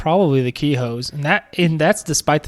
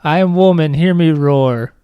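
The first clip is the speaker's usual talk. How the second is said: mock empowered villain; 3 dB louder than usual. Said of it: "have her be like".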